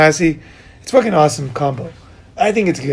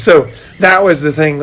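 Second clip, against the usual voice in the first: normal talking voice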